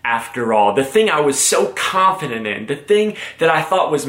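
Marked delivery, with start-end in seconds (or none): 0.0-0.7 mock meltdown. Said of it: "having a complete meltdown, going".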